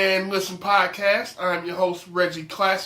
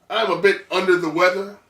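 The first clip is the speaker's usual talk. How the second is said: nasal cold voice, cracking; sick voice. Real, not acted. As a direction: talk through a head cold. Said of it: "my voice cracks or sounds a little nasally".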